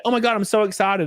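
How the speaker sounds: mocking gushing commenter. Mocking Facebook commenters fooled by fake poster, gushing. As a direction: parody the gullible fans. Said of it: "and everybody's like".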